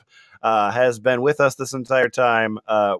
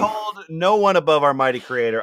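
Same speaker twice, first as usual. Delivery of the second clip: Latina mom voice; 5 semitones higher than usual. Acted. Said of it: "more Latina, uh, Republican mom".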